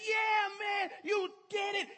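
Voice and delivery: high, loud, elated cheer. Retold or imitated. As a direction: celebrate with your teammate. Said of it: "hugs his teammate and says".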